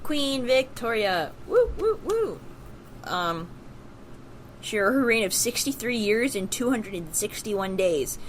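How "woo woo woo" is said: excited whoops. Real, not acted. Cheering for Queen Victoria.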